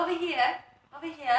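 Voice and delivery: slightly British take on Australian; Australian attempt, a bit British. American guest imitating how Australians drop their R's, shaky Australian accent. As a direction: try Aussie without the R's, landing British. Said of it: "It's a bit British, I think".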